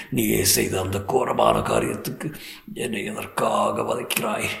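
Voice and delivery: hushed, pleading king facing a ghost; a lightly voiced, dread-filled monarch; frightened old king. King's terrified plea to ghost.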